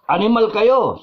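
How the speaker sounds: high, loud mock insult; mock angry shout. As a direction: fling the insult like an angry viewer. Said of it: "sabi ni Nash Benavides". (pabirong galit na sigaw)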